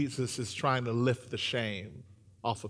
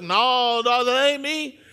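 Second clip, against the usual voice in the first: high, raised-voice protest; loud denial; 10 semitones higher, 9 dB louder, slower than usual. Acted. Peter answering the crowd that points him out, loudly protesting. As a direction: deny it hard, as if cornered.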